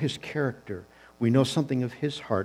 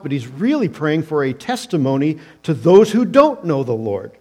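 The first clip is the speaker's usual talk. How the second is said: rising, louder and higher, building to a peak; preaching at full force; 5 semitones higher, 9 dB louder than usual. Real, not acted. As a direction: preach it with growing fire.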